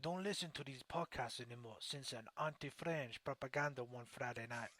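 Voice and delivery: reading a comment in a mock French accent; half-hearted bad French accent, drifting toward Spanish or Slavic. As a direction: put on a clumsy fake French accent. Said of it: "What kind of accent was that?".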